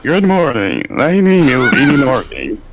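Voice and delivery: slow synthesized monotone, lightly done; a mild robotic voice; joking about greeting family as Stephen Hawking; Stephen Hawking impression. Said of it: "go around the house and be like".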